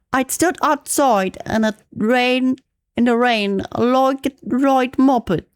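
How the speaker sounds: put-on amateur British accent slipping toward Australian; British accent, drifts Australian. Practicing a British accent from a reading text, amateur British accent. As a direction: read it in a shaky attempt at British English, sounding Aussie. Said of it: "That's a bit of Australian accent".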